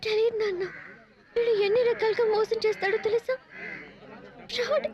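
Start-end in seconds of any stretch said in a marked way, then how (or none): 4.5-4.9 scornful insult. Acted. Daughter insults him.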